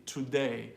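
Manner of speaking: today with a perfect T, full oo and perfect D; crisp, unreduced "too-day"; overdone careful pronunciation. Shown as a demonstration. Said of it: "a perfect T and a perfect D".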